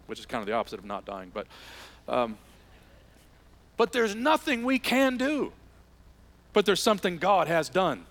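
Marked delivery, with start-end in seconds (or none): 3.8-8.0 emphatic turn. Acted.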